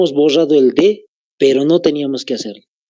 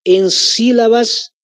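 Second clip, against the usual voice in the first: slow dictation; 5 semitones higher, slower than usual. Shown as a demonstration. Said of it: "Anótense".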